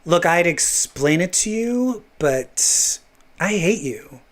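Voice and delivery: mild put-on contempt, trailing down; Quentin Quire. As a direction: dismiss them coolly, in character. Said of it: "Quentin Quire".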